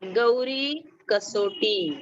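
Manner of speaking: ordinary delivery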